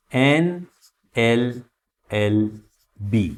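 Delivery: एनएमएलए spelled out very slowly; slow model reading. Shown as a demonstration. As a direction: stretch every letter of एनएमएलए. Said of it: "slow model reading".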